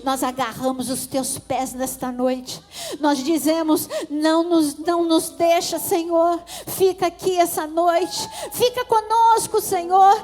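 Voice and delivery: loud, high, impassioned prayer to Jesus; fervent prayer. Acted. Pastor praying for the church, loud and impassioned. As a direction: pour it out to God at full force.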